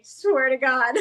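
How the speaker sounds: high squealing laugh. Real, not acted. Healer swearing it's true about Karens, laughing hard. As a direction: crack up mid-sentence. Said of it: "but I'm gonna say it".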